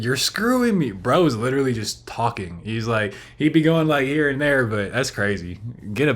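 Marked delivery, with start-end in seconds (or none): 0.0-0.9 higher-pitched mocking quote. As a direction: mimic him in a whiny high voice. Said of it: "Mofo over here said".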